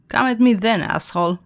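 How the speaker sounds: defiant yell with all his might; yelling defiantly. Acted. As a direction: shout it as a last stand. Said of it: "yelled Alex with all the might".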